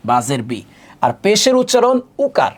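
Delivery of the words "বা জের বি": "বা জের বি" said in one go, lower, with a final ee; zer as i-kar. Shown as a demonstration. Teacher recaps the zer vowel, saying "বা জের বি" with ee. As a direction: run "বা জের বি" together, ending on ee. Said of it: "ইকারের মতো করে হবে".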